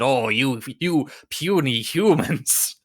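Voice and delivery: high, whispered evil villain gloating; cackling villain. Retold or imitated. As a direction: hiss it like a gloating mad scientist. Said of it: "cackling maniacally as he said".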